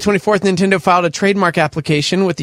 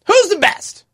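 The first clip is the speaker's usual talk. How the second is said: high, big hype voice; dramatic announcer. Acted. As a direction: call it out like a game-show host. Teasing a playoff announcement.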